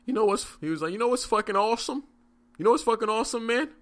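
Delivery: put-on high, loud slurring drunk enthusiasm; drunk guy. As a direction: imitate a wasted stranger gushing at the bar. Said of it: "He was drunk out of his mind".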